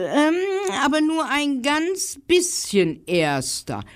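high squirrel teasing. Acted. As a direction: correct him like a small squirrel. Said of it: "Das Eichhörnchen antwortete".

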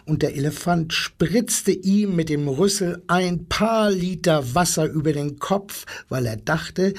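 ruhig erzählend für Kinder vorlesen; Gutenachtgeschichte vorlesen. A narrator's reading. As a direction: wie am Kinderbett eine Geschichte vortragen. Reads bedtime story aloud. (sanfte Vorlesestimme für kleine und große Leute)

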